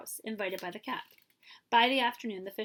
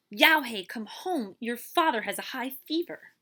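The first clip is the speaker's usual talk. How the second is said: louder, calling out to Yao He; urgent call; 4 semitones higher, 7 dB louder than usual. Acted. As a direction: shout him home, urgent. Neighbor runs calling urgently.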